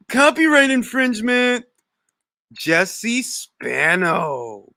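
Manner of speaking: slow, stiff official warning; a lightly voiced copyright notice; mock announcer voice. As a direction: pretend takedown announcement.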